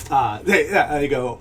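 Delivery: normal talking voice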